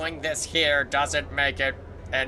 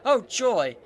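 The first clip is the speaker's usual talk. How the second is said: joyful; 6 semitones higher, 3 dB louder, slower than usual. Acted. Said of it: "Echo opens her mouth ... and speaks".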